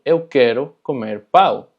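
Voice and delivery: pau with an oral, un-nasal -au; slow Portuguese, pau with no nasal sound; non-nasal pau. Shown as a demonstration. Teacher shows the learner's slip, non-nasal pau. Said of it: "si tú dices pau en vez de pão".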